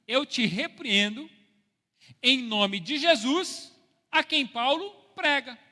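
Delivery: loud, slow, drawn-out rebuke, pitched high; mock-solemn exorcism, each phrase stretched out; exorcist's command. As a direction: command the evil spirit with slow, booming pomp. Acted exorcism command to evil spirit.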